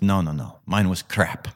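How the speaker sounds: attempted light Spanish accent. Spanish golfer brushing off praise of his eagle, light Spanish accent. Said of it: "that was my best Spanish accent".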